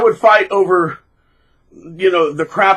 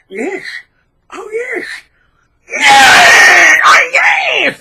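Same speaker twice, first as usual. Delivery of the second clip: very high, loud ecstatic squeals; mock gloating; 9 dB louder, much slower than usual. Narcissist relishing the begging calls, mocked. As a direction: squeal with greedy delight.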